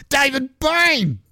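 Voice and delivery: high, slow disbelieving cry of the name; stunned recognition, drawn out; shocked exclaim. Retold or imitated.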